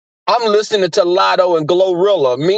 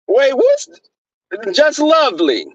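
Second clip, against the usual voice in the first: surprised; 8 semitones higher, slower than usual. Real, not acted. Sudden double-take at cohost.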